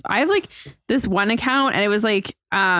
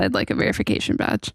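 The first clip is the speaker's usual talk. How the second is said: low, breathy whispered request; 10 semitones lower, 3 dB quieter, faster than usual. Pretend. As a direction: whisper it like a secret plea. Asking Instagram on the podcast.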